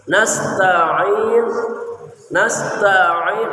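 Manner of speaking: nasta'in with the ain pressed in the throat. Shown as a demonstration. Teacher drilling the ain of nasta'in. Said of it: "ain di sini".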